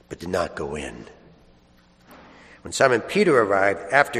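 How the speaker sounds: measured scripture proclamation with long pauses; solemn Gospel reading. Acted. Priest proclaiming the Easter Gospel to the congregation, solemn and measured. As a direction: read it out phrase by phrase, leaving space.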